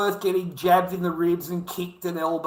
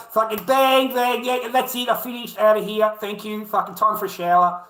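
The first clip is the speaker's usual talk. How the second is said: brisk, higher and louder mock triumph; mock quick finisher; 4 semitones higher, 4 dB louder than usual. Impersonating the partner who finishes and leaves, mock brisk. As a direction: bang it out like you're done and leaving.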